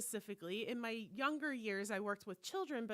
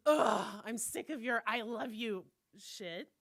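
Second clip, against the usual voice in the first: loud groan, then irritated complaint; mock exasperation; 7 dB louder than usual. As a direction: imitate a fed-up friend, opening on a loud ugh. Acts out friend's irritated rebuff.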